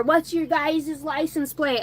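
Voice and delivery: high, drawn-out mimicry of a hostile man; mock his nosy demand, slowly; mocking imitation.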